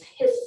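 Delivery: drawn-out s like a snake; snake hiss. Shown as a demonstration. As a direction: let the end of hiss sizzle on. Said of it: "simulate what that sound really sounds like".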